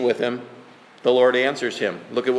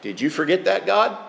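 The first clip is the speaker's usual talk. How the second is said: mock questioning God; 4 semitones higher than usual. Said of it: "Adding there on my own".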